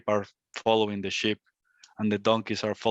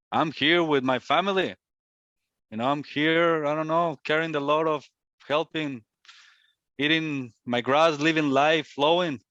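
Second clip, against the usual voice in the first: weak coward lion; 5 semitones higher than usual. Acted. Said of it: "the weak, coward lion".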